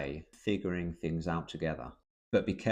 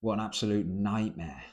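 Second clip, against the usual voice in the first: mock exaggeration. Shown as a demonstration. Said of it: "is to exaggerate".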